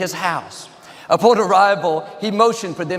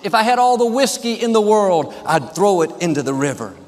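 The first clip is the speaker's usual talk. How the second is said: near-shout; 2 semitones higher than usual. Acted. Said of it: "Almost at the top of his lungs".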